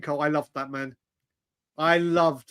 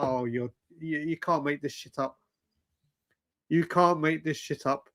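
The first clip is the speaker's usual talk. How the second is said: softer, lower disbelieving mutter; stunned disbelief; 3 semitones lower, 6 dB quieter than usual. Retold or imitated. Watching his lost suitcase roll past, low stunned disbelief. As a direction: say it like you can't believe your eyes. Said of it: "I was like".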